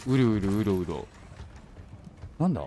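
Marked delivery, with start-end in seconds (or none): 0.1-1.1 imitating a creature's gurgling growl; half-joking growly imitation; mock beast growl. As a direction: mimic the monster noise lightly. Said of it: "獣みたいな声するんだけど".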